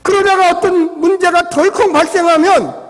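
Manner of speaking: ordinary talk, nothing marked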